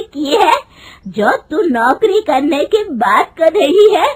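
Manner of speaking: loud, high-pitched scolding with drawn-out words; angry mother-in-law. Acted. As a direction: berate the daughter-in-law at full force. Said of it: "उसकी सास गुस्से में कहती है". (गुस्से में डाँटती सास)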